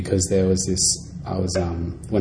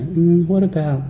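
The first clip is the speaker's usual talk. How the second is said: laughing mimicry; 10 semitones higher, 4 dB louder than usual.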